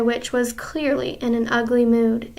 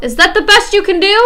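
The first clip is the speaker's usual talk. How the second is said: higher, louder, fast scornful taunt; mocking witch; 8 semitones higher, 9 dB louder, faster than usual.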